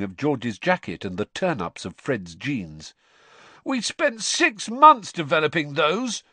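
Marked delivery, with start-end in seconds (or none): 3.6-6.2 slow indignant shout. A narrator's reading. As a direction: shout back at mother. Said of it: "Fred shouted at his mother".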